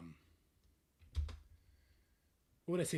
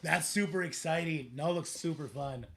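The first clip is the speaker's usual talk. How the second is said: excited; 4 semitones higher, 11 dB louder than usual. Real, not acted. Hyped about new game characters.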